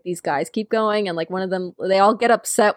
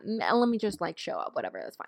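mock self-persuasion; 11 dB quieter, faster than usual. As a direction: imitate someone talking herself into it, fading away. Mimicking heroine talking herself into it.

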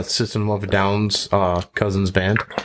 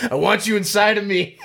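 toaster voice; 11 semitones higher than usual. Acted. Toaster's punchline in joke.

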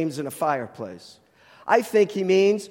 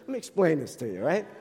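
put-on Jersey accent; 3 dB quieter, faster than usual. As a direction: put on a New Jersey way of talking. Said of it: "That's very Jersey".

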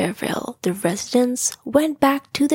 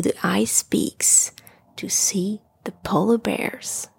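whispered story narration; 2 semitones lower than usual. A narrator's reading. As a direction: whisper the story like tucking a child in.

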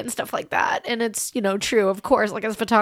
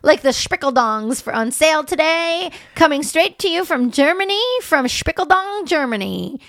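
mock sales pitch; 4 semitones higher than usual.

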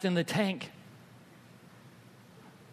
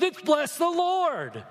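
imitating daughter's delight; 12 semitones higher, 3 dB louder, slower than usual. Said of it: "she goes".

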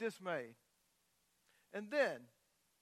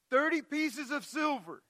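incredulous; 6 semitones higher, 4 dB louder than usual. Retold or imitated. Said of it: "I'm like".

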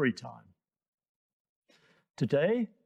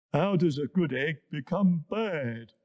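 deep bubbly hippo. Acted. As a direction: ponder it like a big hippo. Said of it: "asked the hippo".

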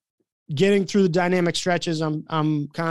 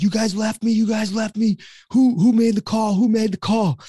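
higher, insistent mock outrage; retold angry accusation; 5 semitones higher, 3 dB louder than usual. Late player confronting those on the bus, mock outrage. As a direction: demand answers, imitating an indignant player.

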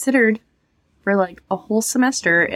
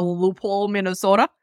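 put-on Minnesota accent. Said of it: "I love how you said that".

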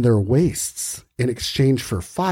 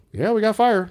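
high villager voice; 9 semitones higher than usual. Retold or imitated. Villager reply higher.

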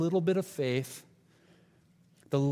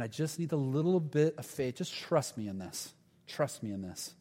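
gentle reassurance; 2 semitones lower, 6 dB quieter than usual. Retold or imitated. God gently reassures the doubter.

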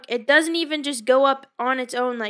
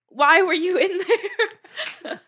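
self-mocking; 6 semitones higher, 4 dB louder, much slower than usual. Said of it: "I was like".

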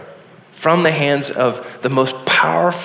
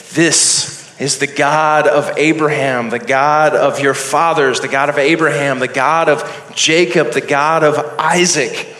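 voice of God; 3 dB louder than usual. Acted. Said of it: "And the voice said".

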